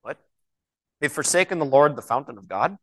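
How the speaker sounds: baffled echo with a questioning rise; mock bewilderment, rising at the end; puzzled disbelief. Acts out baffled reaction to verse.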